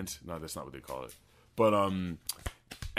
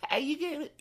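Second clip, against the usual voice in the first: high mocking voice. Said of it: "Who's like".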